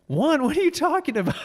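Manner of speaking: high, laughing question; laughing disbelief. Retold or imitated. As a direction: laugh through the confusion. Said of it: "We're like".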